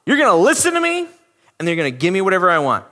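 parent bossing school staff; demanding parent. Retold or imitated. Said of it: "Some parent ... and they go".

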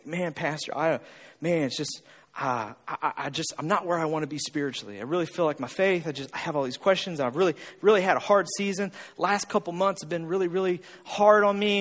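mildly acted low, soft confiding; struggling churchgoer. Churchgoer confiding in the pastor about a hard season, low and halting. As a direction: imitate someone haltingly confessing a struggle, low. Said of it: "People will come up to me and say".

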